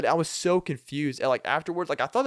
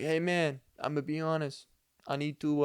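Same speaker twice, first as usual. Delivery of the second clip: put-on first hesitant try at a Hispanic accent; 3 semitones higher, 4 dB quieter than usual. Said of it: "I don't know if I'm doing this whole Hispanic accent right".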